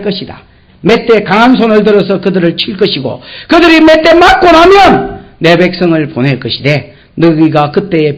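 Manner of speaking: full-force preaching. Acted. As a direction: thunder out God's promise to the congregation. God's promise preached at full force.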